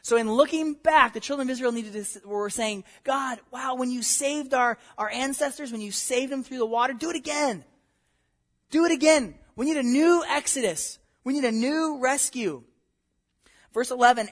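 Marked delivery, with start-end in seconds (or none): 3.0-12.6 higher, urgent plea to God; pleading cry. Retold or imitated. Israel begging God, a higher urgent plea. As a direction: beg God to do it again. People's plea voiced by preacher.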